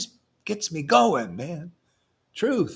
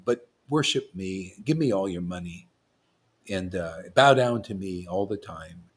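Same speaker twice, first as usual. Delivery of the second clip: lower, put-on smug guru voice; sanctimonious fraud preaching low; mock hypocritical guru; 9 semitones lower than usual. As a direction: play the fake humble guru who demands worship. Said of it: "I'll do a nice hypocritical trip".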